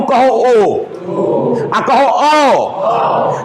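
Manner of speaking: slow, drawn-out ओ with the mouth a little open; ओ held long with the mouth half open. Shown as a demonstration. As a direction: stretch out the vowel ओ. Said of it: "जब कहोगे ओ तो थोड़ा सा खुला".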